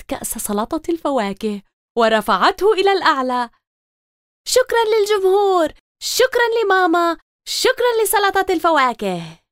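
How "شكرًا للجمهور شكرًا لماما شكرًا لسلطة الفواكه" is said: high, grand showbiz thank-you; mock stage star. Girl pretends to thank an audience on stage, grand. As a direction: play the star thanking the crowd.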